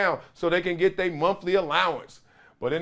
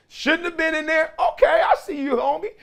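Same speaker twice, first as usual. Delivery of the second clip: grudging teammate; 10 semitones higher than usual. Retold or imitated. Voicing teammates' grudging nod.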